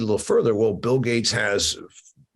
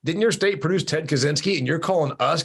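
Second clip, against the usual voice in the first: high-pitched teasing protest; mock indignation; 7 semitones higher than usual. Real, not acted. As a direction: needle her in a raised, incredulous pitch.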